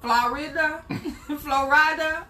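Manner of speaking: high laughing Florida; laughing disbelief. Real, not acted. Wife hears husband will be in Florida, laughing disbelief. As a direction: laugh it out in surprise. Surprised at his answer.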